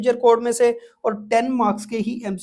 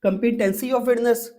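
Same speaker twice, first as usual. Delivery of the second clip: slow dictation; much slower than usual. Shown as a demonstration. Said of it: "teacher dictating a key term".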